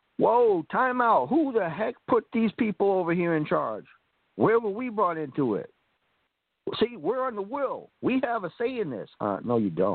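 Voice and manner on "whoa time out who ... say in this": very high, high-pitched yelling and screaming. Speaker acts out the family protesting from the sidelines, imitating screaming. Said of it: "the family is in the sidelines screaming".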